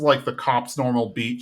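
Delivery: usual speaking voice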